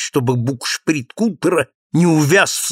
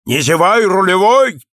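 raised warning call; 6 semitones higher, 5 dB louder than usual. A narrator's reading. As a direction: call out to the helmsman. Cap warning the helmsman.

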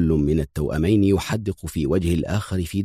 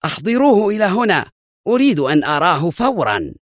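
higher, urgent command in excitement; agitated order, voice raised high; excited shout; 11 semitones higher than usual. A narrator's reading. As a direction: call for him eagerly, pitched well up. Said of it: "صاح شيمون في انفعال".

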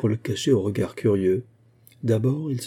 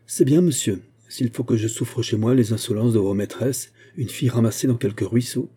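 final insult. Acted. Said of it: "le fouetta d'une dernière injure".

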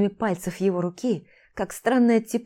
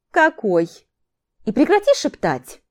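loud, higher-pitched irritated demand; indignant demand; 6 semitones higher, 5 dB louder than usual. A narrator's reading. Teacher demands Орон stop whispering, indignant. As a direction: snap back, voice jumping up.

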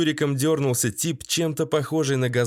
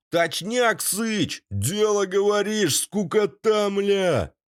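high, rowdy gang yelling agreement; rowdy gang chorus; 8 semitones higher, slower than usual. A narrator's reading. Thugs back their bored boss, cheering him high and rowdy. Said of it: "Подтвердили со всех сторон".

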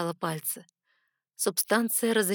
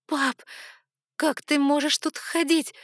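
higher, louder desperate call; distressed call; 8 semitones higher, 5 dB louder than usual. Acted. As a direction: shout to her father in pain and dismay. Burnt, calling to father. (дочь отчаянно кричит отцу, выше и громче)

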